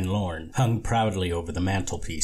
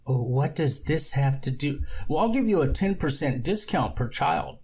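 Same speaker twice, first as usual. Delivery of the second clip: raised, put-on voice; high comic figure voice; high character voice; 6 semitones higher than usual. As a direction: play it high and odd.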